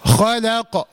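"خلق" with a thin ل between heavy خ and ق; correct light lam. Shown as a demonstration. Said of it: "هقولها ازاي؟". ("خلق" بترقيق اللام وقلقلة القاف)

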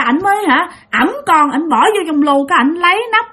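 lightly voiced sobbing toddler; crying child voice. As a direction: speak like a frightened three-year-old, near tears. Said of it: "mà vừa nói vừa khóc nha".

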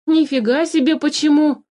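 high, indignant outburst; exploding in anger. A narrator's reading. Philipp explodes at the changeling's innocent question, angry outburst. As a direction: blow up in disbelief. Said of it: "взорвался Филипп".

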